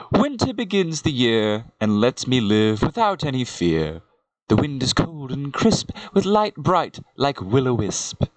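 measured poetry reading; self-styled poet reading aloud; poem recitation. Acted. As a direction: recite it as rhyming verse, line by line. Recites own season poem.

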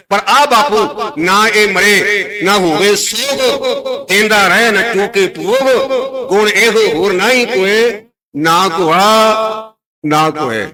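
very slow, drawn-out verse; scripture recitation. Acted. Preacher reciting Gurbani on the undying Father, slow recitation.

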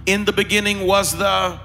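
preacher cueing a crowd to finish the verse; call and response. Real, not acted. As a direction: lead the congregation, leaving "the" open for them. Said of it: "come on, say it with me".

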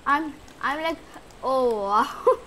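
breathless, loud "oh wow"; overwhelmed with joy. Real, not acted. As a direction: react as if lost for words, near tears. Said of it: "I'm so exploded with joy".

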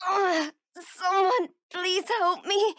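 slow, crying plea for help; tearful slow cry for help; pained plea. Acted. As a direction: beg through the pain. Wounded, begging for help.

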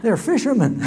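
loud high jeer with a laugh; mocking laugh. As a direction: sneer at the slippery fishermen. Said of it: "Sadducees and Pharisees said".

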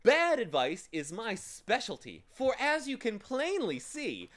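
high, loud character voice; gloating storybook villain; boastful villain. A narrator's reading. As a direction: toss it off loudly and high. Self-styled monster brags to captives.

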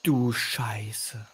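slow, breathless whispered curse; whispering. Real, not acted. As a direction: hush it out in shock. Stunned by the war zone.

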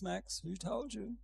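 mildly tender questioning; calm, kindly prompt; so gentle. Acted. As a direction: gently call the listener back with a question. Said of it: "But it's so gentle".

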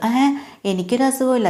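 high-pitched, offended denial; indignant protest. Acted. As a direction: protest indignantly that she is not ill. Grace protests she has no illness.

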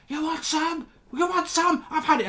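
high, taunting schoolboy voice; hammed-up teen squaring up to a teacher; mock challenge. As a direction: pitch way up and goad like a cornered lad. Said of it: "he's like".

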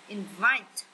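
inVITE, weight on the rising second syllable; stress on second syllable. Shown as a demonstration. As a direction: lean into VITE in Invite. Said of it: "nhấn âm hai". (nhấn mạnh âm hai: inVITE)

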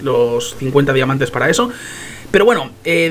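ordinary delivery

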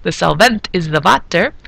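put-on a touch of corny Transylvanian accent; light mock Transylvanian accent; bad Transylvanian accent. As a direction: slip lightly into Transylvanian, "water" as "vatter". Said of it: "my bad accent's gonna be coming back".

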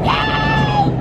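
very high-pitched excited yay; squealed hooray; excited cheer. Real, not acted. Cheers about the day's outing.

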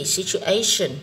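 "situation" said slowly, stressed on the A sound; stress on third syllable. Shown as a demonstration. Teacher showing students word stress, "situation" stressed on A. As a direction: lean on the A in "situation". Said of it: "âm A".

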